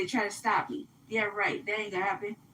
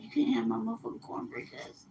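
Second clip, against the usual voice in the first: softer, hushed warning over cornbread; kind of whispered; 2 semitones lower, 7 dB quieter than usual. Shown as a demonstration. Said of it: "Like that, I kinda whispered it".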